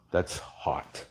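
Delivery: low, whispered approval; almost voiceless, savoring the look; hushed admiration. Real, not acted. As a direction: breathe it out, quietly impressed. Admiring own work under breath.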